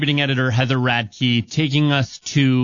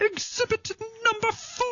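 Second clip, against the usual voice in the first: very high, light, soft pig puppet voice; 8 dB quieter than usual. Reading out an exhibit label after others urge it: Miss Piggy voice. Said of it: "read that in a Miss Piggy voice".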